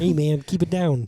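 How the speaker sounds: lightly put-on puppet frog voice; Kermit. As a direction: attempt the Swiss guy, landing on a puppet frog. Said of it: "Kermit is the Swiss".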